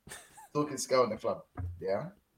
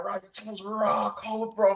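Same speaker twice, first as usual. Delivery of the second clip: slow, higher mock Birmingham accent; Birmingham fan's accent; 3 semitones higher, slower than usual. Man quotes the fan's praise again, slow mock Birmingham accent. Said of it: "dialect is killing me".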